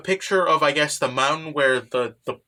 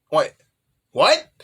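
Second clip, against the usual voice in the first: startled what; 2 semitones higher, 4 dB louder than usual. Retold or imitated. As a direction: jump at the sight of her. Man startled by his student.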